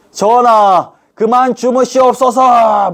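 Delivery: high, loud, slow drawn-out plea to the king; pleading minister. Acted. Minister loudly pleading with the king at night. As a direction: beg the king loudly and slowly. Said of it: "막 이런 식으로 하면서".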